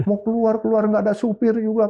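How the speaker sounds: mock an exasperated wife telling you off; imitating angry wife. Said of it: "Nyonya saya marah". (menirukan istri marah, nada tinggi)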